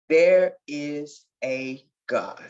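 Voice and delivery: slow and hushed in wonder; retelling her first thought, slow; slow awed quote. Retold or imitated. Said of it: "all I can remember is saying".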